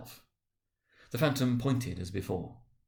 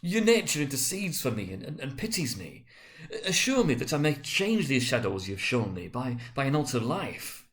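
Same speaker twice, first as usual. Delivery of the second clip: higher, earnest pleading; entreating; 4 semitones higher than usual. Acted. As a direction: coax the spirit's pity. Scrooge entreating the spirit.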